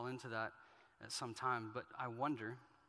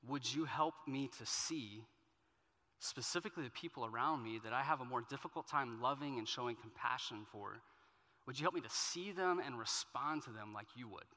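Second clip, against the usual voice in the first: serious prayer. Acted. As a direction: pray it sincerely, unhurried. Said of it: "seriously, what, what would it look like to pray".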